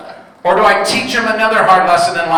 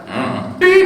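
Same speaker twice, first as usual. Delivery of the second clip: curt hum and beep; 11 semitones higher than usual. Retold or imitated. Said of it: "And she went".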